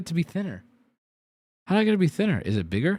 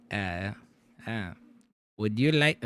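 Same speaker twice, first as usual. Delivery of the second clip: sad waiter voice; 9 semitones lower, 6 dB quieter than usual. Retold or imitated. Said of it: "I'm gonna do his voice ... it was very sad".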